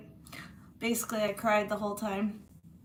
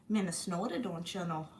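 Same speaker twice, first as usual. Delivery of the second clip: put-on Minnesota accent. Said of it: "Gotta love Minnesota".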